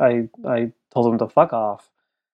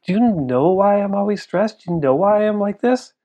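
raised, pleading voice of an upset father; higher, urgent retold outburst; retold crying dad; 8 semitones higher than usual. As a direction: act out a dad's anguished confession, without sobs.

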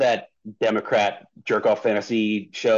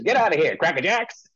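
1930s fast-talking dame; 5 semitones higher than usual. Retold or imitated. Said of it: "a nineteen thirties fast-talking dame".

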